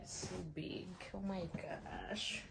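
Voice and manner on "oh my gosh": whisper. Real, not acted. Whispered awe at unboxing.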